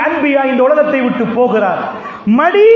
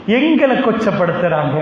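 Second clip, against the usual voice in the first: low rueful laugh; 5 semitones lower than usual. Shown as a demonstration. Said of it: "எங்களை கேவலப்படுத்துறாங்க".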